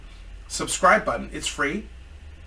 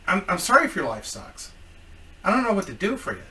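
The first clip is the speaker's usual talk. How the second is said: ordinary talk, nothing marked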